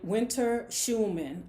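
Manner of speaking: slow, deliberate self-introduction; proudly. Retold or imitated. Young woman giving her name to the prospective landlady, mildly proud. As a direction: give the full name slowly, with mild pride. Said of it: "I said proudly".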